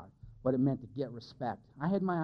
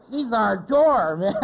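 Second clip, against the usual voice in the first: slow, louder, laughing through the words; 6 semitones higher, 10 dB louder, much slower than usual. Real, not acted. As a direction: still cracking up as you say it. Laughing at granny's story.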